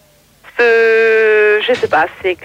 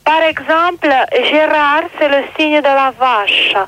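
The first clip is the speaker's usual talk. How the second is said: slow, affected drag voice; put-on drag voice; slower than usual. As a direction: draw the words out with put-on poise. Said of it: "tu prendras ta voix normale". (voix de travelo affectée et lente)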